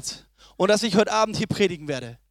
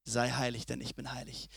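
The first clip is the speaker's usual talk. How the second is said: hushed quote of God; 12 semitones lower, 14 dB quieter than usual. Acted. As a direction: drop right down and let God's words land softly. God's words repeated. (leise und feierlich gesprochen)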